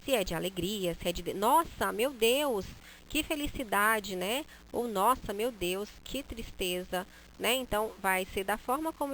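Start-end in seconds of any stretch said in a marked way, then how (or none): 1.3-4.1 happy exclamation. Shown as a demonstration. Teacher showing a happy Nossa, meu Deus. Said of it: "a forma como a gente pronuncia é que vai dar a ideia". 4.9-7.1 sad exclamation. Shown as a demonstration. Teacher showing a sad Nossa, meu Deus. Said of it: "a forma como a gente pronuncia é que vai dar a ideia".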